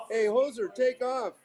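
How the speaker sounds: high, loud mock Canadian-style accent; hammed-up northern Minnesotan hoser accent; northern Minnesota accent. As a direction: call it out in a broad Minnesota accent. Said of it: "he's from northern Minnesota".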